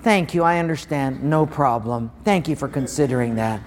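what came out instead of the retort, meek and polite; meek politeness. Retold or imitated. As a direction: swallow the anger and be nice. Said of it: "But came out was".

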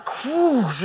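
long whooshing water noise; imitated hose spray. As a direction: draw out a whoosh like a hose blast.

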